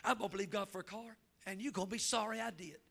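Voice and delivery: a hint of a stubborn teen; defiant daughter. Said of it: "That's what she told me".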